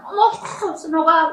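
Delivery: 어머 jumps up high in glad surprise; happy shriek of recognition; delighted greeting. Retold or imitated. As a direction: greet an old friend with a bright surprised cry. Joyful greeting retold.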